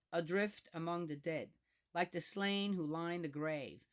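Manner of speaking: measured psalm reading, lightly solemn; scripture reading. Acted. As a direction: read the psalm aloud, steady and solemn. Reads psalm aloud between comments.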